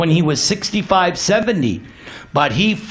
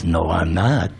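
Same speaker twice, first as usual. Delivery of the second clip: put-on playful child Krishna; 12 semitones lower, 3 dB quieter than usual. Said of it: "Krishna goes".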